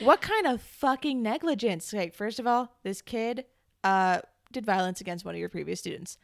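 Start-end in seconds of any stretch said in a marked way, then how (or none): 0.0-1.9 loud, high, drawn-out indignation; raised-voice exasperation; outraged rant. Real, not acted. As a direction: demand it in incredulous outrage, slowly. Outraged rant about negligent principal.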